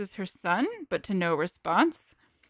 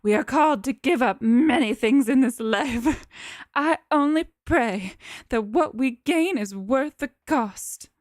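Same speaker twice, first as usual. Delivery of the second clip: Cookie Monster voice; 3 semitones higher, 5 dB louder than usual. Acted. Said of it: "the strain in her voice is the inner Cookie Monster".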